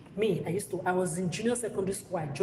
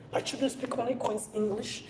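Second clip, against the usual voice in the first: higher, sing-song bragging mother, rising on only; mock proud parent; 6 semitones higher than usual. Mocking a mother boasting her children's English, higher and rising. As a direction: ham up the boast with a lifted tune.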